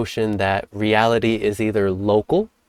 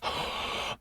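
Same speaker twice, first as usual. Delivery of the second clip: excited gasp; 14 dB quieter than usual. Shown as a demonstration.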